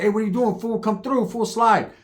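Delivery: high, breezy call to a buddy. Retold or imitated. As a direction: toss it out as an easy invitation. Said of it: "It would usually be like".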